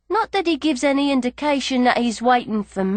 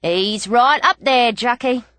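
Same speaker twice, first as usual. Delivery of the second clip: admiring jockey. A narrator's reading. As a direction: admire the horse, drawing it out. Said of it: "looking up with admiration".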